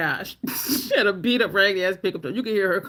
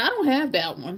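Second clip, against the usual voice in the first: mock spoiled-brat tone, bratty and petulant; 2 semitones higher than usual. Retelling what another man said, mimicking a bratty tone. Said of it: "He said it like a brat".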